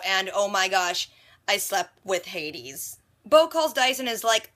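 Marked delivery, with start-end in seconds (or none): 0.3-3.0 drawn-out slow horrified realization; dismayed realization. Retold or imitated. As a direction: let it sink in slowly, aghast. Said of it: "mixture of being sad that it wasn't real".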